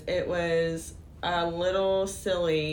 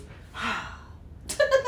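imitated sigh. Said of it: "the guy just goes".

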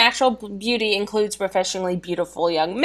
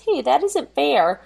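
whiny complaint; 5 semitones higher than usual. Retold or imitated. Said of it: "Honey complains".

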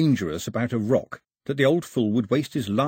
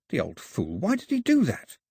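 wheezing; 5 semitones higher than usual. A narrator's reading.

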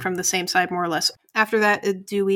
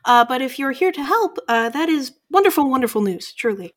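lightly voiced flustered innkeeper; a hint of a bewildered old owl woman, slightly raised; 3 semitones higher than usual. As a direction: innkeeper baffled by the strangers. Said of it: "she's, uh, like".

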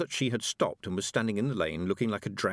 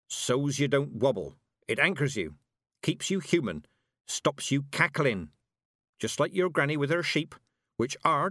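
put-on no-nonsense old witch; 6 semitones higher than usual.

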